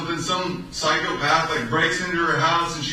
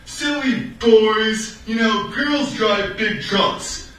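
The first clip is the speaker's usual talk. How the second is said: mocking sticker quote; 4 semitones higher, much slower than usual. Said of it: "and it was like".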